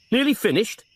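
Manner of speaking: disbelieving echo, falling on Nearly; scornful repeat of Nearly finished; incredulous echo. Acted. Frost echoes Morgan in disbelief.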